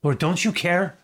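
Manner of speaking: anguished Lord don't you care; Martha's plea. Retold or imitated. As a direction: cry out like a hurt, neglected friend. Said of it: "That's how she said it".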